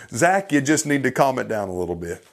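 low, quick dampening aside; mock calming-down. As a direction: imitate a critic talking someone down, pitch dropped. Voices critic calming him down.

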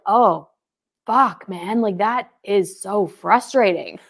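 overdone commiseration, drawn out at the end; match their frustration, slowing into the last words; laid-on sympathetic exasperation; overacted empathy. Shown as a demonstration. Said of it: "I'm overacting it right now".

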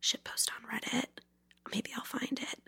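hushed secret plug; whisper. Pretend. Host whispering a sneaky plug to listeners. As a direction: whisper it like subliminal messaging.

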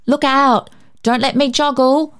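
lightly voiced boy calling out a warning; a hint of a careful little boy; warning child. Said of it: "David warned".

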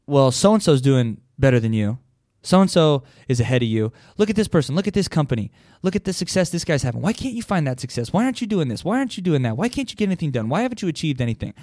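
nagging inner voice. Retold or imitated. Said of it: "This is what my voice says anyway".

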